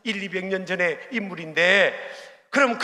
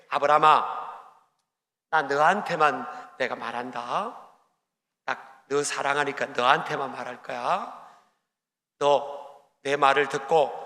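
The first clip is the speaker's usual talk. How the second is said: tender divine voice; 4 semitones lower than usual. Acted. God promising Abraham privately, lower and gentle. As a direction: speak as if only to him, gently.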